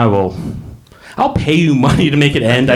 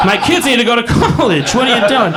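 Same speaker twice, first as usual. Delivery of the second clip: mock whining casino owner; 4 semitones higher than usual. Imagined casino owner begging winners to stop, mock whine. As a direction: play a fretting owner begging players to lose.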